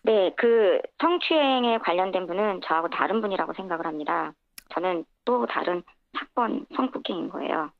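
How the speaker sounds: electronically altered voice; voice changer. Real, not acted. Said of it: "음성 변조를 해서".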